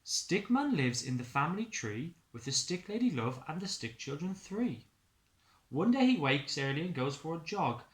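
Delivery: put-on lilting read-aloud narration for young children; sing-song story voice; storybook narration. A narrator's reading. Teacher reading a picture book to the class, lilting.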